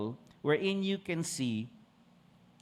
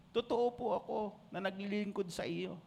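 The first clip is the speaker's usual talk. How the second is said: soft tearful plea; 5 semitones higher, 5 dB quieter than usual. Retold or imitated. Hezekiah praying, weeping.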